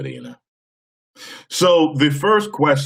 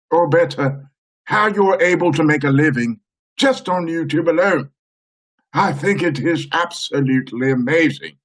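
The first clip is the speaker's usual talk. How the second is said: lightly raised stately reading; regal voice; 5 semitones higher than usual. Acted. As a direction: read the letter like royalty. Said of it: "regal voice".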